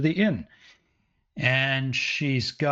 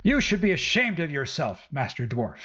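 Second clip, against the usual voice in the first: scolding woman. Acted. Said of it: "she throws your clothes down".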